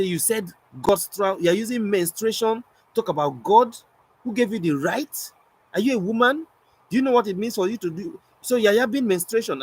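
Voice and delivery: high-pitched outraged questioning; imitated furious lady. Lady challenging the poet over his wording, mock outrage. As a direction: mimic a woman's indignant interrogation. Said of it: "very furious and pissed".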